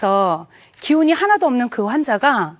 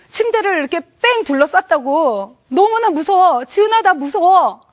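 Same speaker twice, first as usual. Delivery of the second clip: building from reproachful pleading to a high, frightened wail; retold frightened wailing; 4 semitones higher than usual. Husband waking his wife at night, rising frightened wail. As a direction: plead in rising panic, half crying. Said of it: "남편이 막 울면서 화를 내면서 두려워하면서".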